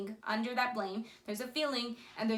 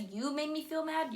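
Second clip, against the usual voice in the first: blaming; 5 semitones higher than usual. Shown as a demonstration. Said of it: "you're blaming him".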